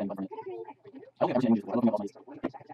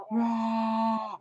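silly roar; 5 semitones higher than usual. Pretend. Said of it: "Eric, you gotta shut up".

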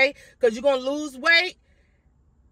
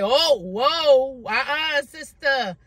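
sassy body voice; 3 semitones higher, slower than usual. Pretend. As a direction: scold like a sassy sister. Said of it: "my body be like".

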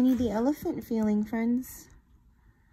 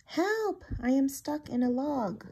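high little trapped bunny voice, calling out; cry for help; 5 semitones higher, 4 dB quieter than usual. Acted. Fluff calls to Tiny for help from the log, high and pleading. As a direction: squeak out a plea from inside a log.

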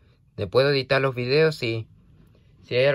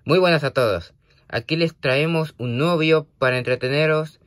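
video greeting; 2 semitones higher than usual. Pretend. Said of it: "tengo que saludar primero este saludo como".

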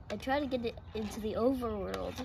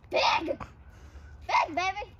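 excited; 6 semitones higher, 3 dB louder, slower than usual. Real, not acted. Excited at big bubble.

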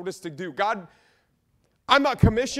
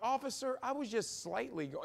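sheepish excuse; 2 semitones higher, 12 dB quieter than usual. Pretend. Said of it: "if I ever get pulled over".

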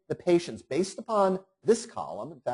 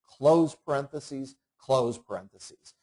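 slow, deliberate; slower than usual. Shown as a demonstration.

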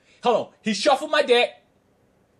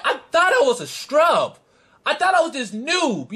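mocking, laughing; 5 semitones higher than usual. Mocking the departed opponent's insults.

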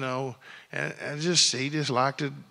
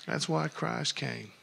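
quiet, settled repeat; soft echo; 5 dB quieter than usual. Real, not acted. Preacher to his congregation, echoing it softly. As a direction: drop it down and let it sink in.

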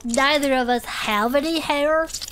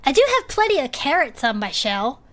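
ordinary delivery

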